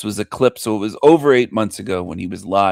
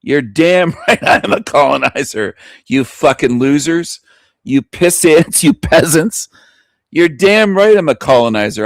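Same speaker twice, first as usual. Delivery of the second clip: proud gloat; 2 semitones higher than usual. Pretend. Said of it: "proudly wave and say".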